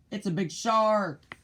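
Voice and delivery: a pirate warning of a shark; frightened shout. A narrator's reading. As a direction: cry out in panic. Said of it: "one pirate shouted".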